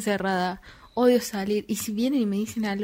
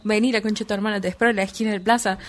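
mock tough challenge; 3 dB louder, faster than usual. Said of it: "si me insultan".

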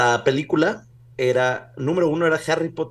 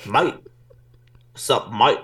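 put-on Australian accent. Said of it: "A ver tu acento australiano".

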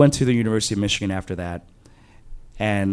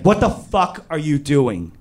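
higher-pitched, mildly outraged retort; shocked outrage; 5 semitones higher than usual. Retold or imitated. Friend waking up to being grabbed, acted shocked outrage. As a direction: act out startled indignation.

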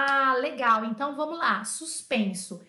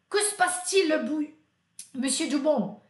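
mock headmaster; 3 semitones higher than usual. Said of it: "Até o diretor chama ele de bouillon".

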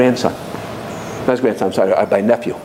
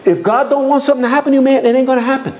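much higher, insistent repeat of the line; emphatic repeat; 11 semitones higher than usual. Retold or imitated. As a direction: hammer the lesson home, pitched up. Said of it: "One guy saying to the other".

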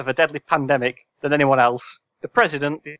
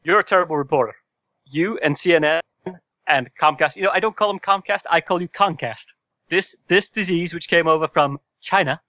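Trump impression; 3 semitones higher than usual. Shown as a demonstration. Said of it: "I'd like you to attempt to do it again now".

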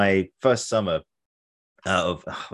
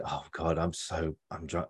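put-on drunken mumble; 2 semitones lower, 10 dB quieter, slower than usual. Drunk inner thought walking home.

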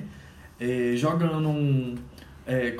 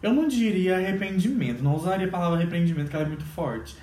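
imitating the apology; 5 semitones higher, much faster than usual. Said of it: "na retratação falou assim".

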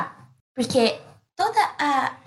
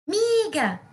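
high called-out name; calling out; 9 semitones higher than usual. Acted. Friends call to the trapped ant, high call. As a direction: call her from outside the house. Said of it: "alguém gritando".

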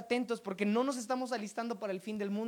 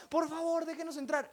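higher-pitched mock plea; pleading; 6 semitones higher than usual. Shut-out women begging at the wedding door, pleading. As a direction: plead to be let in.

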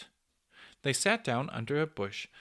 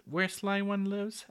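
dismay; 8 semitones higher than usual. A narrator's reading. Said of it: "asked Peter in dismay".

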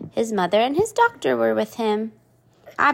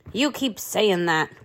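grumbling pirate; 2 semitones lower, slower than usual. Acted. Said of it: "grumbled the pirate".

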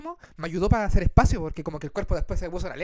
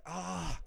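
soft acted groan; 13 dB quieter than usual. Storyteller acting his night of cramps, soft groan. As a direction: imitate moaning softly with a bellyache. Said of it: "empecé a quejar".

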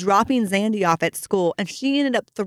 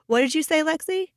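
higher, rising question; imitated child's question; 8 semitones higher than usual. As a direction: voice a curious child, lifting at the end. Child asks sister to repeat.

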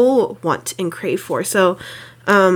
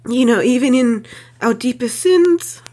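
ugly crying. Real, not acted. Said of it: "I'm, like, ugly crying right now".

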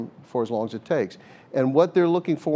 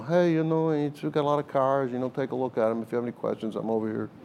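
easygoing, offhand salesman, fading softer toward the end; a lightly voiced laid-back Columbo type, trailing off quieter; casual hint of a rumpled detective, no pressure, drifting quieter; 4 dB quieter than usual. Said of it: "the guy that's like Columbo".

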